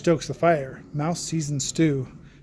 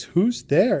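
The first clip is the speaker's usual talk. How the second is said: mouse cries out; 5 semitones higher, 4 dB louder than usual. Acted. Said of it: "Mouse cries".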